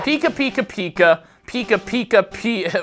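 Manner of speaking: squeaky high Pika calls; playful Pokemon squeak; Pikachu voice. Pretend. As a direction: chirp it like the little electric mouse. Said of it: "what if I talk like that".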